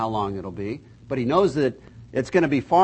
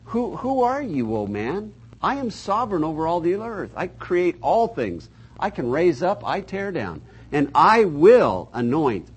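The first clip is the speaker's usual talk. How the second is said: voice of God; 2 semitones higher than usual. Retold or imitated. Preacher voicing God rebuking the scoffers, stern and grand. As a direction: speak as the sovereign creator. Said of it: "God says".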